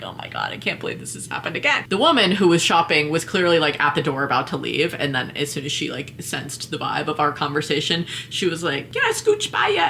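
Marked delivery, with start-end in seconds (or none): 0.0-1.9 exasperated whisper. Retold or imitated. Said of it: "in a state of rage". 8.9-9.9 much higher, small apologetic voice; mock timid shopper. Imitating nervous shopper.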